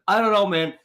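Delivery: mild mock scream; retold screaming. Storyteller imitates his woken friend's complaint, mildly mock screaming. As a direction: imitate an exasperated yell, breaking toward laughter. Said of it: "He's screaming at me".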